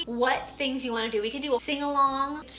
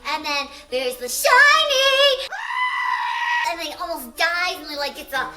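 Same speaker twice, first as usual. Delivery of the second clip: helium voice; 2 semitones higher, 4 dB louder than usual. Real, not acted. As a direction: talk after a big breath of helium. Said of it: "using helium voice".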